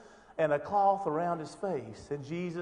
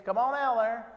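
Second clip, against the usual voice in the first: raised, higher calling voice; 5 semitones higher, 7 dB louder than usual. Acted. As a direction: call him out of the grave. Jesus calling Lazarus out.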